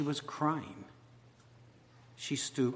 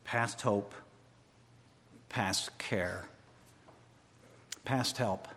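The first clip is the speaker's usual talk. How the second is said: Past hope, past care, past help spoken low and soft; quiet despair; 4 semitones lower, 5 dB quieter, slower than usual. Acted. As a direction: murmur the three phrases low and soft. Quiet version.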